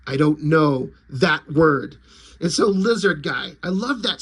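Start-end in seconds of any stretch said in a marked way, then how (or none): 0.1-2.0 low, slow deadpan tough guy; lightly voiced grim vigilante; gruff hero. Popo brushing off the lizards, low and deadpan. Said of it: "And Popo's like".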